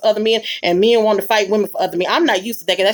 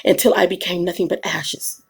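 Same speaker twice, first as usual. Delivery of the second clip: dramatic thespian reading; 4 semitones lower than usual. Acted. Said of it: "That was my thespian".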